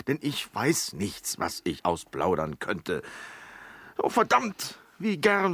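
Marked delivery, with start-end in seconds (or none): 4.0-5.5 exasperated outburst. Acted. Frustrated outburst.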